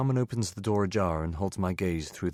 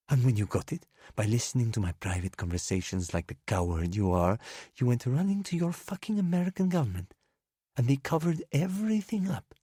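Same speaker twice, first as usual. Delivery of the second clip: put-on drunken rage; 8 semitones higher than usual.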